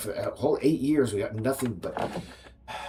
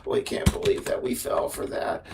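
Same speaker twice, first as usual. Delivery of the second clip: much higher, mock Southern Trump supporter; mock Southern caricature; 9 semitones higher than usual. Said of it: "Southern accents to most of the, my caricature voices".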